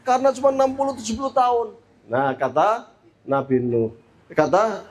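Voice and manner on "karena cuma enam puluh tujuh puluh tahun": higher, emphatic vowing; lightly voiced woman piling up eager promises; earnest mother. Mother vows to Prophet Nuh constant worship, emphatic. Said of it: "Dijawab oleh ibu ini".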